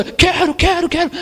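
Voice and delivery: mock spoiled child; whiny child. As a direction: demand it like a spoiled kid. Child demanding.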